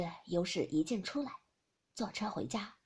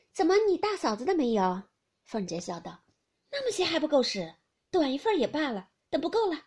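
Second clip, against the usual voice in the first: higher, louder mock quarrel; joking quarrel; 3 semitones higher, 5 dB louder than usual. Youshi and Fengjie quarrelling in jest, higher and louder. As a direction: argue in jest, never truly cross.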